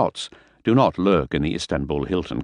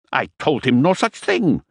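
much higher, slow indignant protest; shrill protest; 10 semitones higher, 4 dB louder than usual. Acted. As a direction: deny it, voice rising in pique. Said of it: "Fisher was becoming shrill".

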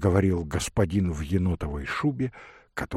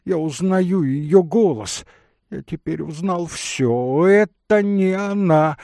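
worked-up, raised pitch, building louder; agitated; 7 semitones higher, 4 dB louder than usual. Acted. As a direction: insist in rising agitation. Agitated denial of recognition. (взволнованно, всё громче и выше)

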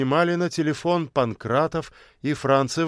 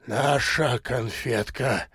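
delighted echo; 3 dB quieter, slower than usual. A narrator's reading. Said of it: "вторил ему восторженный бобёр".

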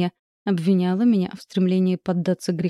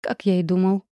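smug smirk. A narrator's reading. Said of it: "удовлетворённо усмехнулся он".

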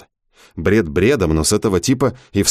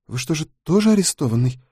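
surprised; 7 semitones higher than usual. A narrator's reading. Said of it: "удивлённо спросила девушка".

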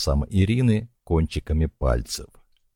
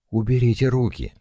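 out of breath; 6 semitones higher, faster than usual. A narrator's reading. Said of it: "сказала она, задыхаясь".

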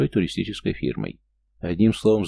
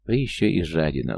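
ordinary delivery, nothing marked

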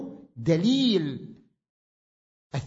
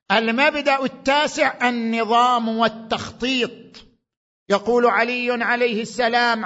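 loud, higher, the saying slowed down; fervent preaching; 6 semitones higher, 5 dB louder than usual. Acted. Preacher announces the ninth principle to the audience, solemn preaching. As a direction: proclaim the principle from the pulpit.

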